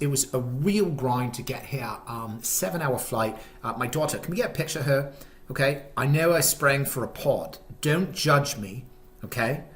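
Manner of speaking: put-on British accent in lively storytelling; fake British accent. Dad recounts the trip with his daughter, in fake British accent. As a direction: keep up the mock British accent. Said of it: "I'm dropping the accent".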